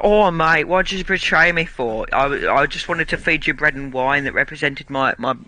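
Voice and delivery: lightly acted wounded British bloke; British mate feeling let down; aggrieved British Jesus. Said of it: "British Jesus' reaction to Judas betraying".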